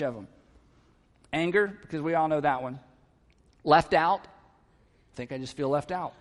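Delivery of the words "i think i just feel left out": slow, soft, lowered confession; quiet admission. Acted. Spouse owning up to feeling left out, quietly hesitant. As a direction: admit it gently, taking your time.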